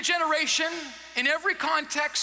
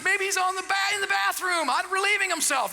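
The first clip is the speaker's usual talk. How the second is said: mocking; 5 semitones higher than usual. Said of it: "he's mocking them".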